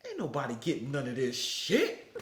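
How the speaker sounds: mock drill instructor verdict, laughing through it. Retelling the drill instructor's ruling, laughing. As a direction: laugh while growling the ruling. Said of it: "he said".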